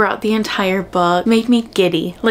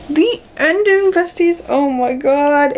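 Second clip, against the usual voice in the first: excited gush; 7 semitones higher, slower than usual. Real, not acted. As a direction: squeal it like a thrilled fan. Gushing over a book's ending.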